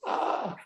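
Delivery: high, voiceless "ah"; mock dumbstruck squeak of breath; speechless gasp. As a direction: let out a thin, wordless gasp. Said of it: "I'm not often lost for words".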